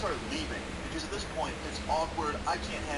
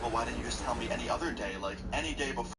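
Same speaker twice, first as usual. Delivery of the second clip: angry tone; 4 semitones lower than usual. Retold or imitated. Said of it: "She has, like, an angry tone in her voice".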